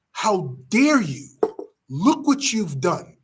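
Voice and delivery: slow, heavy, angry rebuke; a measured but furious brother. Acted. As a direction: drag out each word in fury. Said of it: "he goes off on Yudhishthir".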